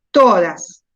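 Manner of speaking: "todas" with a long, strong TO; slow, falling "todas" led by TO; stress on first syllable. Shown as a demonstration. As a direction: stretch the TO of "todas" and let DAS drop. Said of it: "donde yo más llevo la fuerza".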